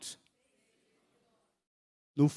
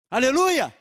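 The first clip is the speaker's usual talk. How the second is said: exclaimed praise; 6 semitones higher, 8 dB louder, slower than usual. Real, not acted.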